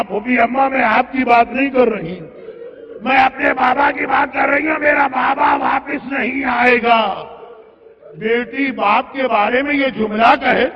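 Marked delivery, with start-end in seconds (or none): 0.0-7.2 retold cry of an anguished daughter; anguished plea. Sughra pleads with her aunt about her father, anguished. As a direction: plead in mild acted anguish. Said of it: "Sughra نے تڑپ کے کہا".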